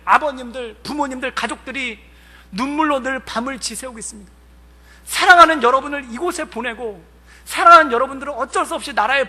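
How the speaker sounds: heartfelt sermon voice; preaching. Acted. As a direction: preach it to the young soldiers. Retells his sermon.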